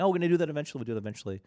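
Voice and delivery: high, loud opening easing back to normal; retold promise. Host quoting promises to the guy strung along, mock insistence. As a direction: mimic a repeated put-off, starting high and loud.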